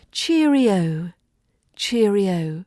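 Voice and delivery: bright, bouncy goodbye. Shown as a demonstration. Teacher shows learners a British goodbye, bright and bouncy. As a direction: say it with a cheery bounce. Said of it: "It's bright and bouncy".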